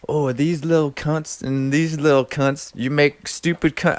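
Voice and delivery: lightly imitated Australian stand-up comic; Jim Jeffries. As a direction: quote a comic's bit in a put-on voice. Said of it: "he's doing his little stand-up".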